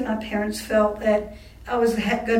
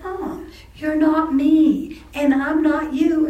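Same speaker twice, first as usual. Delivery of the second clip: slow, higher, emphatic retort; re-enacted exasperation; 6 semitones higher, 5 dB louder, slower than usual. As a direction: spell it out loudly for an obtuse parent. Daughter exasperated with mother, retold.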